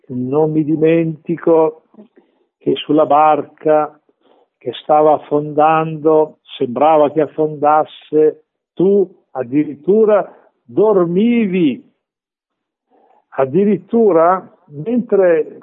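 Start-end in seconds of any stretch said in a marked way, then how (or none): 0.1-11.8 slow, deliberate phrases with pauses; slow acted prayer. Believer in great trial reminds the Lord of the boat, slow acted prayer. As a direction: draw out each phrase as if addressing the Lord.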